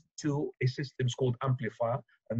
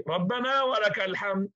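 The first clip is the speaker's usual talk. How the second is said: quick repeat of the response; 6 semitones higher than usual. Retold or imitated. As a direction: toss it off briskly this time.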